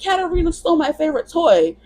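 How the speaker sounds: put-on high-pitched upset child's voice; Daniel Tiger. Upset Daniel telling teacher what's wrong, high child voice. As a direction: imitate a little kid tattling. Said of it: "And then he's like".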